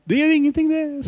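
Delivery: put-on high, smiling old-king voice repeated; King Olav. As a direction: keep the king's kindly, amused voice going. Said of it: "avbrøt kongen med et smil og sa". (etterligner kong Olav, lys og smilende)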